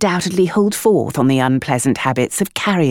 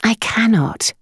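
patient; 8 semitones higher, slower than usual. A narrator's reading. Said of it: "Eugenia said patiently".

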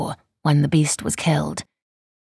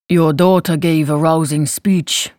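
slow, rumbling nobleman; 3 dB louder, slower than usual. Acted. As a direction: rumble it out slowly. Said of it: "proclaimed in his rumbling voice".

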